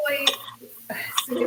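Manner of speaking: whisper. Real, not acted. Whispered aside.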